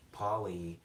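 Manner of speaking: "polyryzumu" in five separate Japanese syllables; five-syllable Japanese-style "polyryzumu"; Japanese pronunciation. Shown as a demonstration. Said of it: "five-syllable word".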